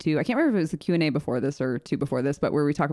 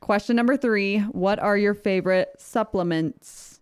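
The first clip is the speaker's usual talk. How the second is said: slow, stiff robot voice; 3 semitones higher, slower than usual. Acted. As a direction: announce it like a robot. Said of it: "I said that like a robot".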